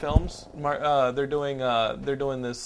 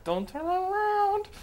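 urgent warning; slower than usual. Retold or imitated. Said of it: "and I'm like".

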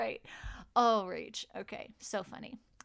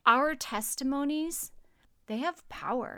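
prayer. Acted. Prayer continues.

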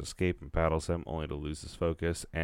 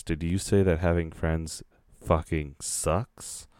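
anime villain voice; slower than usual. Acted. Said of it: "anime villain voice, anime Kira voice".

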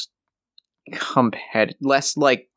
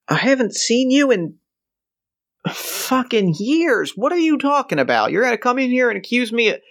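much higher, cracking disbelief; incredulous old man; 6 semitones higher than usual. Acted. Johnny baffled at being accused, high incredulous voice. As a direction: squeak out the outrage.

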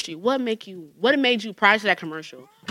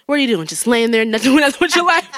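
TV commercial voice; 4 semitones higher, 5 dB louder than usual. Retold or imitated.

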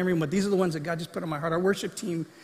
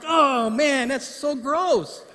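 laughing disgust; 7 semitones higher, 4 dB louder, much slower than usual. Retold or imitated. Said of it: "I'm like".

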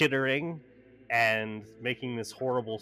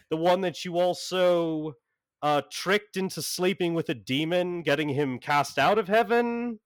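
high, sarcastic, put-upon voice; exasperated Jason Blood; 5 semitones higher than usual. Acted. Jason Blood scolding John for bringing trouble home, high and sarcastic. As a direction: scold John like an annoyed host. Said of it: "Jason Blood's like".

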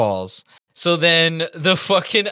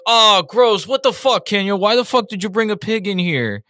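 disgusted characters; 6 semitones higher than usual. Retold or imitated. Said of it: "and they're like".

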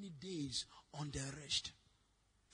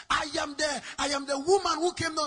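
tag; 6 semitones higher, 11 dB louder than usual. Retold or imitated. Woman's excited call back, acted loudly.

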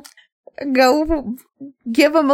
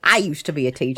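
low, soft deadpan delivery; deadpan character line; 9 semitones lower, 4 dB quieter, much faster than usual. Shown as a demonstration. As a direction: say it flat and low, like a punchline. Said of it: "repeats line as a performed take".

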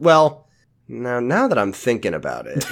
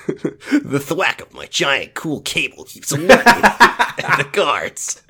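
laughing; slower than usual. Acted. Mock narration laughing.

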